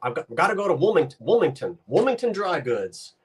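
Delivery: "Wilmington" as Woo-ming-ton, imitating a grandparent; grandparent's "Woomington". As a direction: quote grandma swallowing the L in "Wilmington". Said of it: "she'd say Wilmington".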